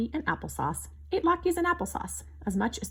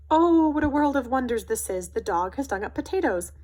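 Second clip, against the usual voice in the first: breathy gasp of wonder, higher and louder; 5 semitones higher, 6 dB louder than usual. A narrator's reading. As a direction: gasp it out in awe at the find. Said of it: "Papa gasped".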